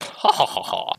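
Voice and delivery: witchy cackle, ha ha ha; evil witch laugh. Pretend. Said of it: "I have an evil witch laugh now".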